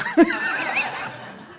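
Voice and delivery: sudden high laugh; high laughing burst. Real, not acted. Preacher laughing at his own story, high burst.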